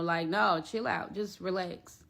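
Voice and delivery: soft, calming plea to relax; lightly voiced mother calming her daughter; soothing mom. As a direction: settle her down gently. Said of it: "She's like".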